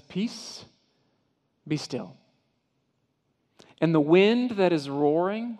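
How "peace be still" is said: calm command. Acted. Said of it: "And he just says".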